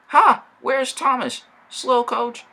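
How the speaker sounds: high, loud gloating jeer. Acted. James arriving first and jeering at absent Thomas, loud. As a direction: crow it out loud.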